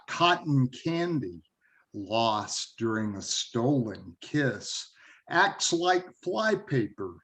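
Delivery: deliberate verse reading, pausing between phrases; poem reading. Acted. Poet reads a drive-in love poem to listeners, measured recital.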